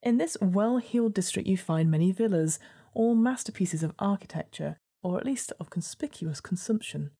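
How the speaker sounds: measured gamebook narrator; story narration. A narrator's reading. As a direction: read it like a storybook.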